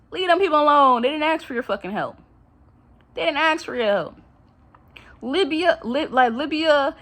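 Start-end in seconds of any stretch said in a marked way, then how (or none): 0.1-2.2 heated outburst. Real, not acted. Ranting at the government.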